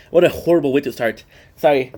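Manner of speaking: talking a bit tipsy. Real, not acted. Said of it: "I'm a bit tipsy".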